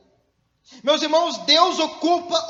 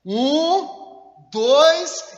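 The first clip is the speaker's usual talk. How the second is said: mother's countdown; 3 dB louder, much slower than usual. Retold or imitated. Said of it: "Toda mãe já falou isso aqui".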